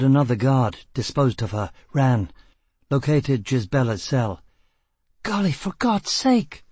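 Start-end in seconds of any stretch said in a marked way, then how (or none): 5.2-6.6 high-pitched woman's exclamation; woman calling, muffled. A narrator's reading. Prisoner calls to him from inside her cell, muffled. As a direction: exclaim it high, as if from behind a door. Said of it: "Her voice was muffled".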